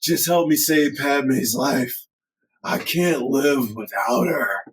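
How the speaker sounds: slow, earnest mock plea; slow lightly voiced Anakin imitation; Anakin's flat plea. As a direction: drag it out pleading. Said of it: "That's exactly how he says it".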